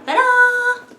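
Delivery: high, loud, slow reveal; grand ta-da. Real, not acted. Unveiling her new vacuum to viewers, high and drawn out. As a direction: drag out the ta-da like a showpiece.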